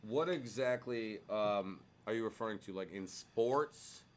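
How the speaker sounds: bass voice. Pretend. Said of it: "You gotta have some bass in your voice like this".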